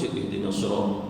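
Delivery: ihdinas sirat run straight on with a short s; wrong, unpressed reading of ihdinas sirat; shaddah dropped. Shown as a demonstration. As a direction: skip the held s in "ihdinas sirat". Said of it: "Jangan terus membaca".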